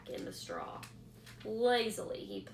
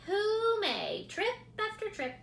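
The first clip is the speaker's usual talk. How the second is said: rat retort; 11 semitones higher, 5 dB louder than usual. A narrator's reading.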